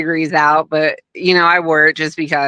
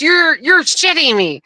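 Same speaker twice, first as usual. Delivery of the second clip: much higher, stunned retelling; mock disbelief; 10 semitones higher than usual. Guest mimicking Hogan's shocked disbelief, much higher. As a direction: imitate him floored by the news. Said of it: "He goes".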